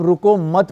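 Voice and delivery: रुको मत run together as one unit; रुको मत grouped, ready for a break after मत; comma after मत. Shown as a demonstration. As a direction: join मत onto रुको. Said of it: "पे अगर हमने कॉमा लगा दिया".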